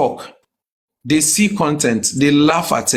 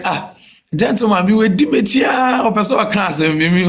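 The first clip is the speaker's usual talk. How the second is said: excited calling out; 5 semitones higher than usual. Retold or imitated. Retelling a stranger calling out.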